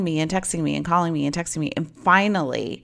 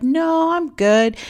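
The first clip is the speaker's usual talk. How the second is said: put-on drunk guy; 11 semitones higher, 4 dB louder, much slower than usual. Drunk guy brushing her off.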